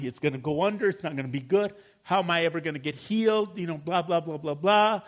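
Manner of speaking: a touch of acted fretting; mock worry. Preacher acts out someone fearing they won't get healed, mild fretting. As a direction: rattle off worries in a lightly anxious run. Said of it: "We call that worry".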